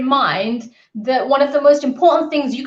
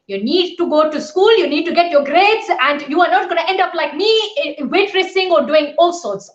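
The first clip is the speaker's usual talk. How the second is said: dad lecturing in a put-on Asian accent, pitched higher; 4 semitones higher than usual. Dad telling her to get her grades, in an Asian accent. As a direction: imitate a strict dad with a light Asian accent. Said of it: "I've given him that Asian accent".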